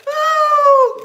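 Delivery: high, loud words through laughter; laughing. Real, not acted. Vlogger mocking how they look, laughing. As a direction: squeeze it out between laughs.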